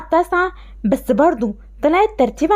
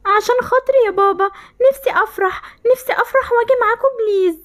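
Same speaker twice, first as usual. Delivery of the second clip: tearful begging, higher and pleading; 5 semitones higher than usual. Acted. Daughter begging her father to take her, tearful. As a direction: beg like a hurt child.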